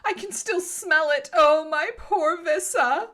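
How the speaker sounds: put-on high-pitched, melodramatic girl; hammed-up distress, pitched high; playing it up. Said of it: "she's playing it up a little bit".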